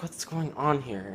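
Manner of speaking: puzzled, stretching the question out; retold confusion. Boy seeing friends move seats, confused. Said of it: "I start getting really confused".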